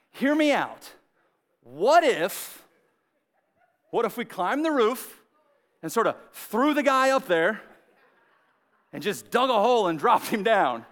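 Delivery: lightly voiced schemer, long pauses between phrases; eager idea guy. Friend pitching a roof plan to the group, lightly acted idea guy. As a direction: pitch a wild plan bit by bit, pausing. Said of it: "I got an idea".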